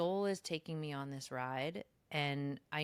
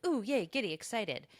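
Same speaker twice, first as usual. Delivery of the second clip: mock giddy excitement; 6 semitones higher, 5 dB louder than usual. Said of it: "expansion from, like".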